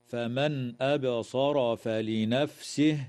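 slow measured tajweed chant; Quranic recitation. Shown as a demonstration. Tajweed teacher reciting for students, slow chant. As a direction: intone the verse slowly. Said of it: "قوله تعالى".

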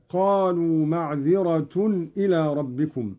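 معذرة read with a u ending, "ma'dhiratun". Shown as a demonstration. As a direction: recite معذرة ending in -tun. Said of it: "برفع التاء هكذا". (معذرة برفع التاء)

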